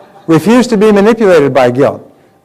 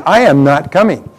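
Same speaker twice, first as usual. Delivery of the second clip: evasive polite excuse; 2 semitones higher, 3 dB louder than usual. Retold or imitated. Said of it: "It means".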